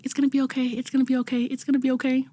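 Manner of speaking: calm him down like a friend would; reassuring. Retold or imitated. Mentor calming a nervous first-time host, soft and reassuring. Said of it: "He's like".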